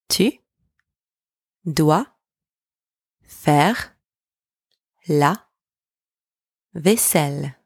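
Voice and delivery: isolated words, lifting until the last one falls; slow dictation, one word at a time. Shown as a demonstration. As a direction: split it up with long gaps for learners to echo. Word-by-word breakdown for repetition.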